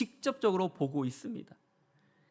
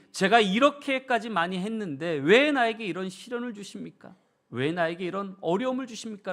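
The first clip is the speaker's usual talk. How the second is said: protesting to God; 3 semitones higher, 4 dB louder than usual. Acted. A believer protests to God over hardship, raised complaining plea. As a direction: demand answers from God, aggrieved. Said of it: "라고 우리는 주님 앞에 따져본 적".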